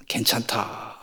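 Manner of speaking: whispered, a half-hearted no; breathy whispered refusal; whispered polite refusal. Acted. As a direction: decline in a hush as if to be asked again. In-law declines.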